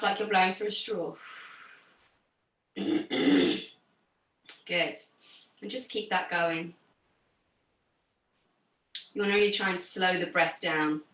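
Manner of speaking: low, calm meditation-style voice; guided breathing. Real, not acted. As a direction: settle the class into stillness. Leads calming breathing exercise.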